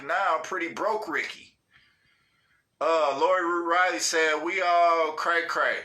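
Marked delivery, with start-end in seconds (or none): 4.4-5.8 laughing. Real, not acted. Reading with laugh.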